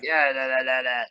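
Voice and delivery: hoarse croaking drill instructor; frog voice. Retold or imitated. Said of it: "frog voice".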